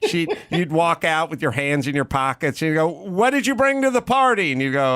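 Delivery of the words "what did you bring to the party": imitated blustery teacher, very high pitched; mock-yell a challenge at a student on stage; Cynthia Seghetti. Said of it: "was yelling".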